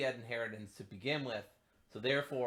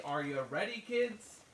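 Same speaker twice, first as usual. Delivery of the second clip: higher, rising pirate call; SpongeBob pirate captain; 6 semitones higher, 4 dB louder than usual. Retold or imitated. Repeating the show's line for a reply, pirate call. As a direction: prompt the kids like a cartoon pirate. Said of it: "from SpongeBob".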